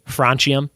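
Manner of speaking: "francium" as FRAHN-chee-um; alternative pronunciation. Shown as a demonstration. Quiz host testing ways to say an element, broad-a version. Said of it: "I don't know how to say it".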